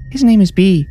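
put-on high-pitched little-girl voice; young girl. A narrator's reading. Neve telling her parents Bee's name, high girlish voice. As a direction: say it as a child, pitched well up.

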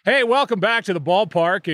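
booming ballpark welcome; baseball announcer voice. Retold or imitated. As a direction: greet the crowd like a TV play-by-play man. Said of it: "nobody talks".

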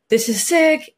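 high, bright-eyed thrill at college; excited high-pitched freshman gush. Retold or imitated. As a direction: squeal it like a giddy first-year. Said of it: "I was like".

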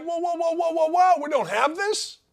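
high, shouted mock alarm; imitating fans suddenly panicking; alarmed whoa. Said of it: "And now all of a sudden you're like".

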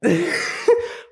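short high giggle; high laugh. Real, not acted. Host laughs off the neighbors' bin slam, high giggle. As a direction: let out a quick high laugh.

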